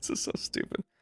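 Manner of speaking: whispered, breathy giggling through the words. Narrating a video about a messy game to viewers, laughing.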